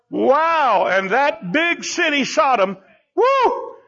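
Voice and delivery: high, swooping, wowed delivery; dazzled excitement. Acted. Lot eyeing Sodom and the green grass, excited and awestruck. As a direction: play it starry-eyed, whooping at the big city.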